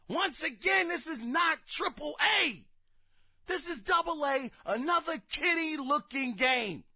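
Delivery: high, emphatic complaint; exasperated insistence. Real, not acted. Gamer dismissing a double A game, exasperated.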